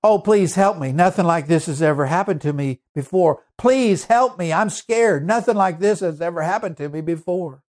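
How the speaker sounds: mock terrified cry for help; frightened plea. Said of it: "she said".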